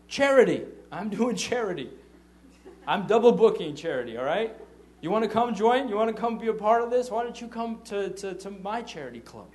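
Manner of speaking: loud, high indignant retort; defiant outburst. Acted. Installer answering why he is busy that day, defiant outburst. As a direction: fire it back with mock indignation. Acted defiant reply about double booking.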